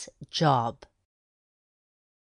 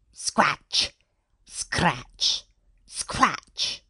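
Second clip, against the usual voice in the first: scratching sound effect; much slower than usual. A narrator's reading. Narrator imitates hens scratching.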